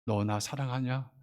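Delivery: 낮고 느리게 조용히 묻듯; 한 사람에게 속삭이듯 천천히 물어봐; 나직한 물음. Acted. 주님의 질문을 청중에게. (낮고 느리게 다정히 묻는 주님의 물음)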